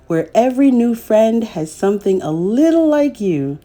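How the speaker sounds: gentle, measured picture-book narration; reading to children. A narrator's reading. Storyteller reading a picture book to young children, gently.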